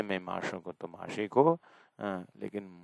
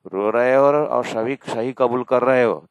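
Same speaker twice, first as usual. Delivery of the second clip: loud, fervent preacher's cry; impassioned shout; 3 semitones higher, 12 dB louder than usual. Real, not acted. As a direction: cry it out, pleading with the faithful to weep. Preacher urging devotees to weep. (जोशीला ऊँचा उपदेश स्वर)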